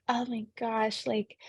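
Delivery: lightly voiced unimpressed sixteen-year-old; hint of teenage disdain, slowed on the gripes; sassy teenager. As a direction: drag out the complaint like a bored teen. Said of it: "she's a sassy sixteen-year-old character".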